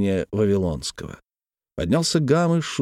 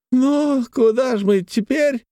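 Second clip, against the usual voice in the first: put-on drunk; 14 semitones higher, slower than usual. A narrator's reading. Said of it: "не без труда проговорил он".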